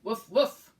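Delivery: big excited woofs; dog bark. Acted. Dog barks in picture book.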